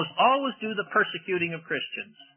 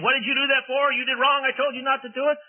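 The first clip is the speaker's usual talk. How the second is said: mock angry God; 8 semitones higher than usual. God storming into the garden, mock furious scolding. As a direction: play the storming God the preacher rejects. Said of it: "angry and mad".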